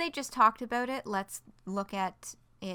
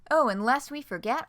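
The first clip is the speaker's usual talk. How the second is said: animated, emphatic news-post delivery; announcement read-aloud; 3 dB louder than usual. Acted. Spokesperson unveiling the new forum to readers, announcement read-aloud. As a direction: proudly present it like a team spokesperson.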